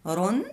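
رن said alone as one clipped syllable; teacher sounding out a syllable. Shown as a demonstration. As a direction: isolate the syllable رن. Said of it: "حرف الراء عنده التنوين".

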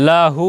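"লাহু" with brief la, long hoo; low "লাহু", the final u held; short then long. Shown as a demonstration. Teacher joining both sounds for learners, short-long "লাহু". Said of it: "প্রথম শব্দ".

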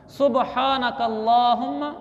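सुबहानक अल्लाहुम्मा with ब and ह apart; correct recitation. Shown as a demonstration. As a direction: recite सुबहानक अल्लाहुम्मा, su-ba-haa with long vowel. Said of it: "ये मैं अल्फाज आपको पढ़ के सुनाता हूँ". (सुबहानक अल्लाहुम्मा, ब और ह अलग)

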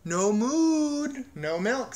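high, loud, long-held MOON; stubborn insistence. A narrator's reading. Cow repeats her ultimatum to the farmer, insistently. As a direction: belt out the ultimatum, then drop down.

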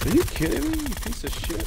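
outraged high yell; furious yell. Real, not acted. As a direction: yell in disbelief at the enemy. Killed by enemy.

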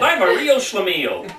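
mild mock wail; a touch of comic self-pity; crying out. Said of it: "cried Harold".

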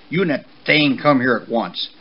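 restrained parental shout; father's shout. Acted. Angry father horse ordering his son over, mildly shouted. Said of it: "his father shouted".

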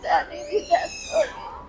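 wailing. Real, not acted. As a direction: cry it out, voice breaking high. Crying over father's death. (ਉੱਚੀ ਵਿਰਲਾਪ ਕਰਦੇ ਹੋਏ)

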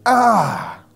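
drawn-out falling "ah" sigh; exasperated sigh. Acted. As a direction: let out a long, weary "ah". God's reaction to being pushed back.

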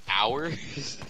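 Thanos impression. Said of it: "This sounds like Thanos".

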